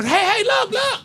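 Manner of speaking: high, loud urgent call; reenacted high-pitched alert; excited calling out. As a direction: holler for friends to come look. Calls friends to look.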